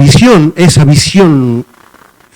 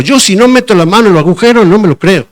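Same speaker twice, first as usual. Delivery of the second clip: a bit higher, fast, stubborn refusal; doubting Thomas; 4 semitones higher than usual. Retold or imitated. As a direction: insist you won't believe it. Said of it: "y dijo".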